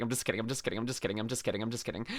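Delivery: mumbled repeats fading out. Acted. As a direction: let each one die down. Repeating a joke disclaimer, trailing.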